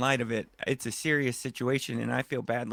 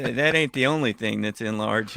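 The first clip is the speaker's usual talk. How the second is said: laughing; 2 semitones lower, 4 dB louder than usual. Real, not acted. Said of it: "repeats the line".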